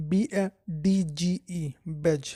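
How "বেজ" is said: বেজ with no separate D sound; silent D. Shown as a demonstration. Teacher showing learners the word for an emblem, silent D. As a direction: say বেজ, leaving the d before g silent. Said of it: "এখানে ডি এর উচ্চারণ হবে না".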